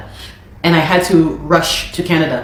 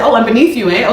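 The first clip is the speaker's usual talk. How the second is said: sarcastic retort; 4 semitones higher than usual. Retold or imitated. Answering the man who called her beneath him, sarcastic. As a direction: throw his words back at him.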